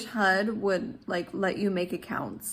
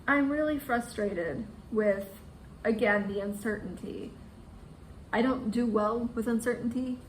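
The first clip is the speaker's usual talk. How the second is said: trying not to cry; shaky sigh. Real, not acted. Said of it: "I'm trying not to cry".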